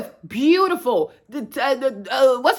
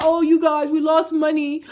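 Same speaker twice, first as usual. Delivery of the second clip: a fake sob through laughter, mocking a brand; half-laughing mock weeping; mock crying. Mocking Nike execs begging customers with fake tears.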